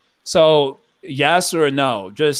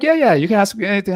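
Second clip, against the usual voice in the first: higher, quick, eager reply; mock-eager, rattled off high; eager agreement; 6 semitones higher, much faster than usual. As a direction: imitate someone readily saying go ahead. Acting out eager devotees agreeing.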